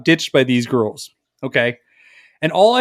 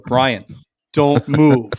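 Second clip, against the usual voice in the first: measured, low-key warning with a pause; deliberate, parental retold command; stern warning to child; 4 semitones lower, much slower than usual. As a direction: imitate warning a child about to misbehave. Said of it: "like a child that you know is gonna misbehave".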